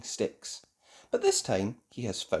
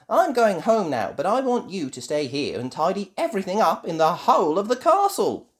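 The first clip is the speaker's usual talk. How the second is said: put-on high, loud child character; giving orders; 6 semitones higher, 5 dB louder than usual. A narrator's reading. Ben ordering the robot to tidy, high loud voice. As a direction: instruct the machine firmly.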